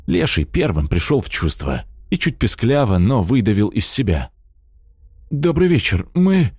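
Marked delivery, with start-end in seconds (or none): 5.3-6.5 mumbling. A narrator's reading. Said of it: "замямлил он".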